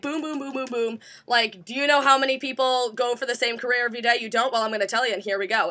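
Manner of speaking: rattled-off impression of a rushed presenter; fast-paced talker. Mimicking Jean's too fast-paced talk, hurried patter. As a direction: run the lines together without waiting. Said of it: "And that's how she talks".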